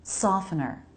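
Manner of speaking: "Softener" as soff-en-er, no T; silent T. Shown as a demonstration. Teacher modelling for learners, "Softener" with a silent T. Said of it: "the T is silent".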